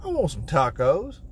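high put-on voice, musing aloud; hungry husband musing. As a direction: muse about tacos in a silly high voice.

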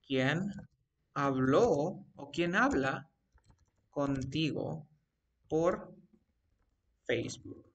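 word by word, pausing between chunks; slow dictation. Shown as a demonstration. Teacher dictates a Facebook example to the student, slow dictation. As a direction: leave gaps as if writing while speaking.

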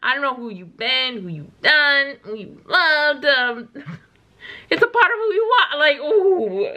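reacting to the lyric, voice lifting; emotional reaction. Real, not acted. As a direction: repeat the lyric, moved and laughing.

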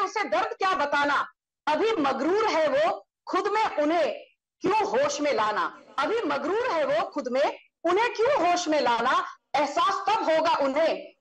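recited Hindi couplets, each line repeated; poetic recitation. Shown as a demonstration. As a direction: declaim the verse with flourish. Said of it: "you've thrown a poetic punch".

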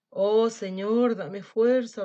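slow, loud plea to heaven; begging prayer. Acted. Wolf begs the Lord for strength, slow loud plea. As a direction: drag out a desperate prayer. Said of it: "rogó el viejo lobo".

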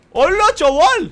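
loud, high, drawn-out cheer; excited whoop. Real, not acted. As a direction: holler in amazement, slowly stretched. Celebra la supervivencia del compañero. (grito eufórico, agudo y alargado)

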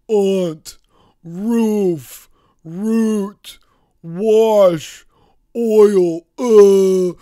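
loud, thick Moscow Russian accent. Shown as a demonstration. Doing an accent tag for his viewers, loud Moscow Russian accent. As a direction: belt out each word in a heavy Russian accent. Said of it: "a pretty clean Moscow accent".

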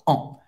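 "On" as one nasal sound, no final consonant; short, isolated nasal "On"; very nasal vowel. Shown as a demonstration. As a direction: demonstrate "On" alone through the nose. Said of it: "que é bem nasal".

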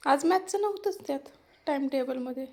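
mother disputes the missing book, surprised; surprised protest. Real, not acted. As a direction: push back, caught off guard. Mother protests about the timetable.

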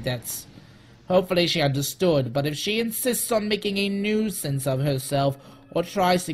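theatrical reading of a letter; dramatic voice. Pretend. Executive writing to Miss Grant, dramatic voice. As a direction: read it out with measured drama. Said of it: "read this file in my dramatic voice".

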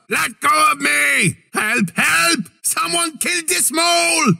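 panicked plea; alarmed cries. Acted. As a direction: yell while being dragged off. Grabbed, calling for help.

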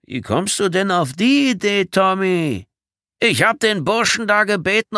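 high, loud, exaggerated denial; protesting innocence. A narrator's reading. Bedford denying to Tommy he meant harm, loud protest. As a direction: protest loudly, feigning innocence.

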